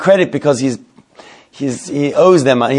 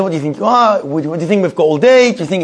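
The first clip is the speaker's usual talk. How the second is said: higher-pitched mock outburst, no real screaming; retold angry screaming; 4 semitones higher than usual. Queuing shopper berating the man ahead, mild mock anger. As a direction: act out indignation without shouting. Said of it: "he keeps screaming and screaming".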